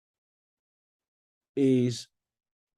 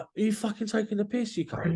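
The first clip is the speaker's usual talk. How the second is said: retold outrage; 9 semitones higher, 3 dB quieter than usual. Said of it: "And I'm like".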